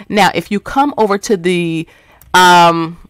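losing the thread mid-sentence; brain freeze. Real, not acted. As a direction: stall as the mind goes blank. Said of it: "I'm getting a brain freeze".

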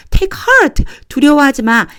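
reassuring Jesus. Acted.

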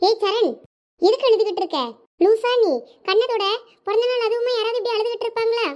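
high-pitched, lively telling-off; exasperated scolding. Acted. Friend chiding someone crying on a birthday, exasperated and high.

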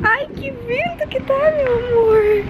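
put-on baby voice. Voicing baby in wind.

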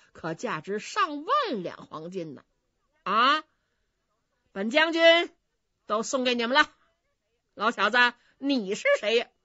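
loud, bossy bully of a general; swaggering general. Acted. General bullies the innkeeper, loud and bossy. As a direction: throw your weight around, lightly voiced.

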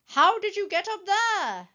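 high, loud, amazed question; gasped astonishment. A narrator's reading. Elmer sees Wilbur up the tree, astonished. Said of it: "gasped Elmer".

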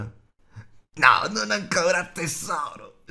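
high creature whine, fading at the end; lamento di creatura. A narrator's reading. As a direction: whine a refusal, desperate. Gollum refuses, wailing creature voice. (voce lamentosa e stridula di creatura)

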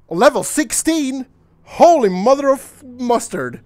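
loud, high amazement; astonished. Real, not acted. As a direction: exclaim in playful shock. Reacts to the new level.

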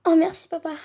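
high, loud delighted thanks; excited thanks. Pretend. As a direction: squeal your thanks to dad. Thanking dad for a gift.

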